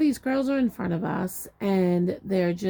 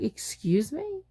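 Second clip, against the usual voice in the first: high, drawn-out disbelief, rising; retold indignant disbelief; incredulous retort; 8 semitones higher, slower than usual. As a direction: stretch it out as an affronted question. Retold reaction to attendant's refusal.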